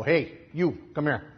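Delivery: classic Chicago street call; Chicago slang. Retold or imitated. Preacher hails man from car, in Chicago slang. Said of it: "in my classic Chicago slang".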